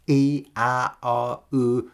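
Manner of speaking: soft English і, а, о, у; English soft vowels. Shown as a demonstration. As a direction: say І, а, о, у softly, the English way. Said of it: "Тепер подробніше про кожен з них". (м'які англійські і, а, о, у)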